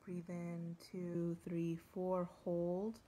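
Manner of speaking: measured meditation guide with long pauses; guided meditation. Real, not acted. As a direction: ease listeners into the forest scene, unhurried. Leads a forest meditation.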